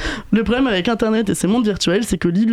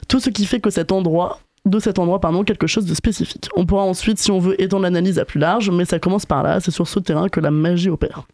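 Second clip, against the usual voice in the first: raspy sore-throat voice; hoarse voice. Real, not acted. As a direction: speak through a sore throat. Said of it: "c'est pas ma voix normale, j'ai une angine".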